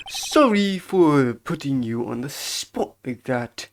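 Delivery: deliberate, drawn-out character apology. Acted. Apologizing for putting someone on the spot, measured bellboy voice. First take, in character, then redone.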